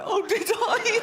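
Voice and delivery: put-on high innocent kid; child voice. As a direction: ask like a surprised child.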